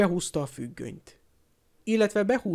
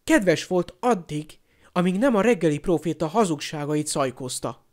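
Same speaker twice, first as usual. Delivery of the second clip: mildly angry, emphatic comeback; a touch of bitter irritation; growled retort; 2 semitones higher, 3 dB louder than usual. Acted. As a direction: lean on the opening words, resentfully. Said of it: "mordult fel Harry".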